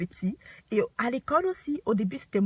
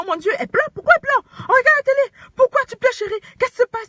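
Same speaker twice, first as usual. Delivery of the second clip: mock very high, loud, frantic, panicked voice; 13 semitones higher, 11 dB louder than usual. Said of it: "Je panique complètement".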